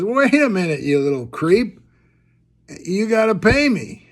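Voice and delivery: mock indignant demand. Woman calls after the departing koala, mock indignant. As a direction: call him back, play-acting annoyed.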